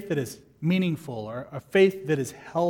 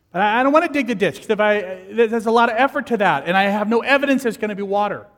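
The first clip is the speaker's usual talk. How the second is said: mock whining; 3 semitones higher, 5 dB louder, faster than usual. Reluctant believer whining.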